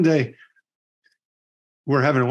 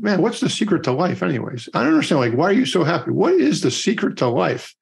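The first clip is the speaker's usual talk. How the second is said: higher-pitched, acted-out bewilderment; puzzled pleading; 5 semitones higher than usual. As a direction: lightly imitate a lost man begging for the answer. Young rider implores the old cowboy.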